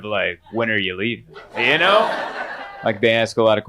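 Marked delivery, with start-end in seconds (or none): 0.5-1.3 hostile undertone. Retold or imitated. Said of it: "with a tone of".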